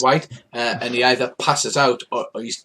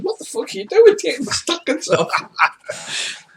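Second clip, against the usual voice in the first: outraged yell; 11 semitones higher than usual. Acted. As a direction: yell it, furious and baffled. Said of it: "He's going".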